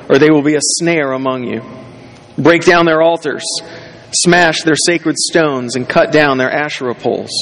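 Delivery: measured, solemn Bible reading; formal scripture reading voice. Acted. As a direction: read the passage with weight. Reads scripture aloud.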